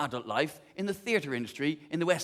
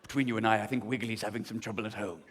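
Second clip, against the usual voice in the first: low, much softer gossip; confiding aside; 8 semitones lower, 6 dB quieter than usual. Acted. Dressmaker confiding to the bride, low and soft. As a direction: lean in and confide.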